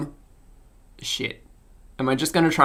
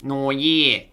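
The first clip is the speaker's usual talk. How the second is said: broad Australian vowels; Australian accent. Acted. Finding Stefan's voice before speaking, Australian accent. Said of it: "Stefan's voice was Australian".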